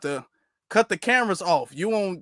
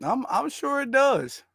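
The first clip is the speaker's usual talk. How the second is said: sarcastic; 4 semitones higher, 3 dB quieter than usual. Real, not acted. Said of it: "sarcastic repetition".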